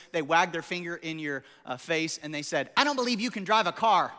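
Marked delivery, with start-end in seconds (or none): 2.7-4.1 squeaky kindergartner. Retold or imitated. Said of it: "in their squeaky little voice".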